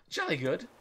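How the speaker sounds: super British. Shown as a demonstration. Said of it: "sounds super British".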